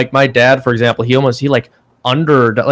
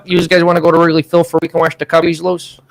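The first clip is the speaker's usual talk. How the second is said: put-on Chicago accent; 3 semitones higher than usual. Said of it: "do your Chicago accents".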